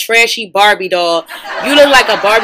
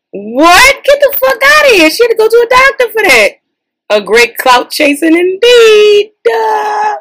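much higher, louder, laugh-crying; shrieking laugh; 13 semitones higher, 7 dB louder, slower than usual. Real, not acted. Reading comments, high laugh-crying shrieks. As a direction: squeal through the laughter.

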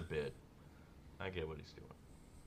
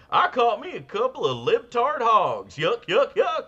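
high, loud hick caricature; goofy country hick; 14 semitones higher, 11 dB louder than usual. Acted. Mocking a country singer for a cohost, hammed-up hick. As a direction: whoop it out like a cartoon yokel. Mock performer singing country comedy bit.

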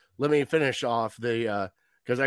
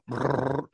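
phone buzz imitation; 2 semitones lower, 3 dB quieter than usual. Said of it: "I felt my phone in my pocket".

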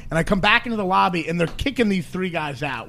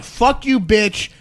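mock angry yell; 4 semitones higher, 3 dB louder, much slower than usual. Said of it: "he was like".

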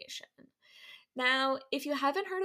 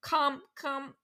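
slow, stumbling Southern "Combahee"; trying Southern accent. Shown as a demonstration. Host awkwardly attempting a Southern accent, halting. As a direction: fumble toward a Southern "Combahee". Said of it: "Trying to be Southern".

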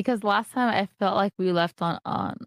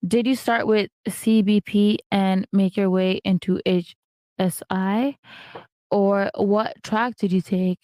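sexy voice; slower than usual. Pretend. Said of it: "in your sexy voice".

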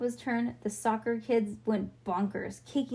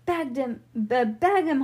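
raised, punched call; hollered order; 4 semitones higher, 5 dB louder than usual. A narrator's reading. Bean telling Ivy to drop the net, hollered order. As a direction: holler it out, stumbling slightly. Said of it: "hollered Bean".

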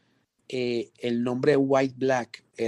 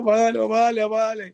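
high, bouncy "vale vale"; excited agreement; 9 semitones higher, 4 dB louder than usual. Retold or imitated. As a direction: eagerly approve the take. Delighted agreement in the studio.

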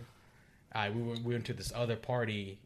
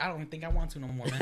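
fast, laughing mock sulk; laughing fake offense; offended, laughing; 3 semitones higher, faster than usual. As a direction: pretend to be too hurt to go. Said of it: "I feel so offended".

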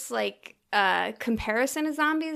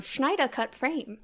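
put-on old-timey voice; 5 semitones higher, slower than usual. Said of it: "why are you doing old-timey voice for that".

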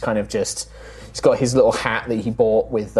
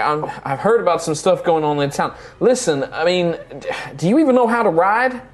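put-on wary young stablehand; 7 semitones higher than usual.

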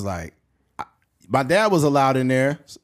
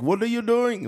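put-on higher, light Indian accent; 9 semitones higher than usual. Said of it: "an Indian guy".

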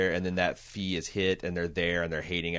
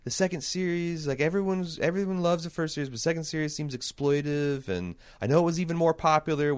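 mock British fan voice, pitched much higher; 8 semitones higher than usual. Podcaster quoting the British YouTube fan, high mock British accent. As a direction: lightly put on a British accent, high and prim. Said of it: "fan who seems to have a British accent".

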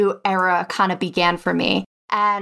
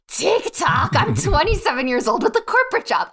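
higher, laughing disbelief; incredulous; 8 semitones higher than usual. Retold or imitated. To her friend's suggestion, high laughing disbelief. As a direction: scoff at the idea, half laughing. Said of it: "And I was like".

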